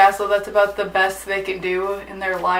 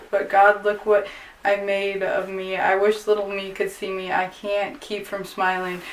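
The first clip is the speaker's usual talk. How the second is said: poem reading. Acted. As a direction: read it gently, letting each line land. Reads a poem aloud.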